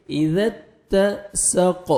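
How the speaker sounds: "اذا اتسق" slow, with a gentle dh and a light t; soft dhal, thin ta. Shown as a demonstration. Teacher shows the letters, gentle dh in "اذا اتسق". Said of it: "ذال کو نرمی سے ادا کرنا ہے اور تا کو باریک پڑھیں گے".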